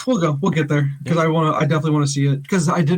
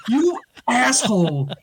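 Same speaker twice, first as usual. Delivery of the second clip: laughing mock insult; 4 semitones higher, much slower than usual. Retold reaction to coworker's prank.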